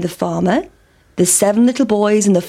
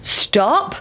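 higher called stop; farmer; 7 semitones higher than usual. Acted. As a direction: farmer calling to the pancake. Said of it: "said the farmer".

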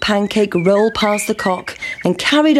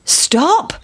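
higher bleating stop; sheep's call; 8 semitones higher than usual. A narrator's reading. Sheep calling to the pancake, higher bleat. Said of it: "said the sheep".

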